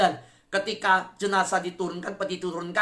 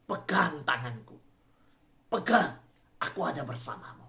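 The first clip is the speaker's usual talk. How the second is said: God reassuring; 4 semitones lower than usual. Acted. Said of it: "Dan dia berkata".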